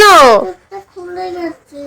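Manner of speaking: crying. Real, not acted. Child crying over teddy.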